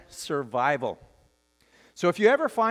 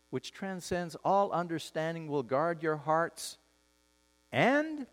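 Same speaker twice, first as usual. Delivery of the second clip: scripture reading; 5 dB quieter than usual. Acted. Pastor reading Paul's words to the congregation, solemn scripture reading. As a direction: let each phrase of the verse settle, growing softer.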